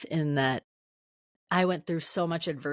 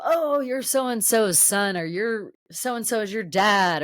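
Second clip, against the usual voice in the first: slow, higher mock-impressed greeting; mock recognition; 5 semitones higher, 3 dB louder, slower than usual. Strangers meeting a celebrity's child, mock-impressed recognition. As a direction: imitate strangers drawing out their recognition.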